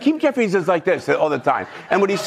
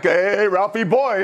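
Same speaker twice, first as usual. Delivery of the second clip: Ed Norton impression; 5 semitones higher, slower than usual. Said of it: "It's like, Ed Norton".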